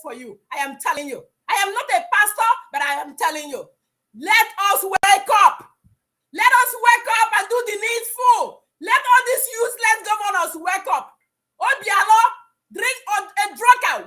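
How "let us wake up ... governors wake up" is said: rallying shout. Real, not acted. Caller on a radio show urging her people, shouting. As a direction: shout it out to rouse your people.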